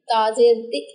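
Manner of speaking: ती chopped off with a glottal catch; jerked short vowel. Shown as a demonstration. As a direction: stop ती dead with a little jolt. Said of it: "ऐसे करके नहीं पढ़ेंगे".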